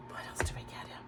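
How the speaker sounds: barely voiced, to herself; whispered aside. Real, not acted. Mum trying to recall the presents, whispering to herself. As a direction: whisper it as if thinking aloud.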